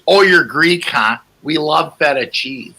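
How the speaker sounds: lightly voiced gushing stranger; clueless fan. Stranger gushing about Greeks to the comedian, mock dopey tone. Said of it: "the guy goes".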